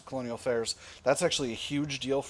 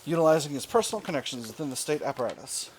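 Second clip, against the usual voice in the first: put-on terrible British accent; 3 semitones higher than usual. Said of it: "doing my terrible British accent for all of my, uh, all of our event text".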